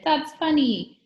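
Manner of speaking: loud, high laughing call; gleeful shout. A narrator's reading. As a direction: crow it to the class. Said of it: "he shouted".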